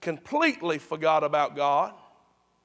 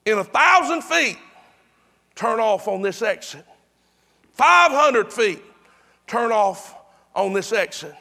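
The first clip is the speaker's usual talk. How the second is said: each distance pitched up and punched, the instruction settling back; GPS voice prompt; 5 dB louder than usual. Retold or imitated. Preacher imitating his GPS nearing the exit, insistent prompt. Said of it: "And then it says".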